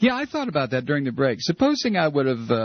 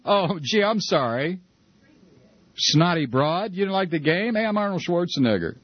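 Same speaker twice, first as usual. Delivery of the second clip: a hint of Schwarzenegger; lightly voiced Arnold bravado; Schwarzenegger impression; 4 semitones higher than usual. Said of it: "what did Schwarzenegger say".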